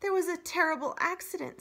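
robot telling bad news too cheerfully. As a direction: report it brightly.

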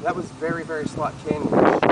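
winded after a tight squeeze; out of breath. Real, not acted. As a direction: talk while catching breath. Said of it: "I'm a little out of breath".

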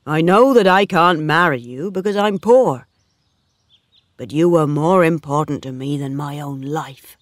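understated sadness, spoken out firmly; sad, deep feeling. A narrator's reading. Poor suitor declares love to Bathsheba, sad but heartfelt. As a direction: plead earnestly with a touch of sorrow. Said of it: "He spoke sadly, but with deep feeling".

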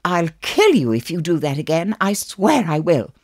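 a sharply pitched threat to a brother; mock threat. Sister threatens William, high and cross.

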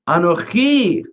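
Anochi drawn out and set apart; emphatic Anochi. Shown as a demonstration. Teacher quoting the rabbi's answer to Martha, emphatic Anochi. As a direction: lean on Anochi with full weight. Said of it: "that's emphatic when you say Anochi".

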